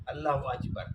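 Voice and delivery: اللہ اکبر said as Allah achbar, k softened to ch; Turkish Iranian accent. Retold or imitated. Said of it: "ہم وہ کیاف نہیں بول سکتے".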